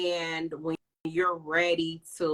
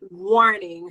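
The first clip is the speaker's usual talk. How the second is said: robot warning; 10 semitones higher, 7 dB louder than usual. Pretend. Mock censor alarm.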